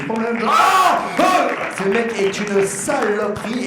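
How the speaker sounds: mock yelling. Acting out the breakdown, then roast.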